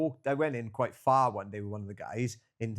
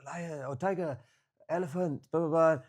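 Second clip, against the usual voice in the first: imitated Indian English; 5 semitones higher than usual. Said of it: "he didn't speak very good English".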